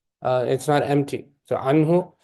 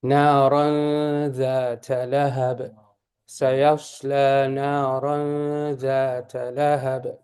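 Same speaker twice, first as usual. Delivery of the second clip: Quran recitation. Shown as a demonstration. Teacher demonstrates recitation.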